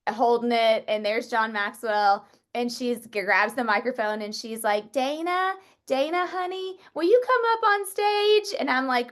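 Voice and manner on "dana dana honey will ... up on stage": high, lightly voiced older lady, affectionate; sweet older lady. Affectionate lightly voiced elder. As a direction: Mo calling Dana up on stage, sweetly. Mo calls her on stage.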